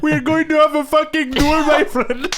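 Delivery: put-on speech with Middle Eastern accent. Repeating a customer's duel threat from the story: imitating Middle Eastern accent. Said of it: "It's what you sound like".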